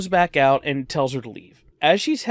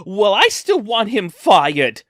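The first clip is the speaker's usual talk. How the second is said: stubborn mock shout; 4 semitones higher, 6 dB louder, slower than usual. Customer insisting to the manager.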